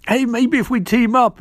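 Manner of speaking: eager high pitch. Retold or imitated. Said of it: "It's like".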